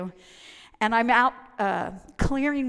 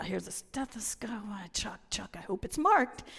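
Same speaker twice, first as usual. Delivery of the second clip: whispered muttering. Retold or imitated. Rummaging through the nurses' bag.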